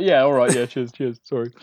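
lightly voiced low, sheepish reply; apologetic character. Laying off the choke hold and apologising, mildly sheepish. Player voices guard backing off.

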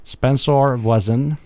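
"Voisin" in French, vwa-zan, drawn out slowly; French pronunciation. Shown as a demonstration. Restarting a listener's question, "Voisin" pronounced the French way. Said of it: "I'm saying it in French".

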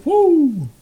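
high whooping cheer; whoop of triumph. Retold or imitated. Hunter whooping after dropping the bear. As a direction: let out a victory whoop. Celebrating the shot.

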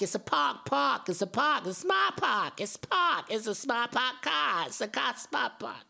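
mocking the ad's Boston accent, over and over. Vlogger mocking the ad's actors in a Boston accent. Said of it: "y'all are doing Boston accents".

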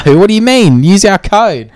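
high, loud mock sales pitch; influencer voice. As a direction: push the code like a sellout. Imitating shameless sponsored influencer.

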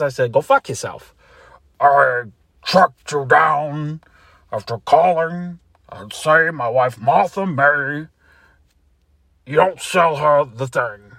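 loud, ranting, angry man on the phone; a man off work on Sunday yelling at a telemarketer who phoned his house; furious phone rant. Acted. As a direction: tear into the caller at full volume. Angry man answering phone call.

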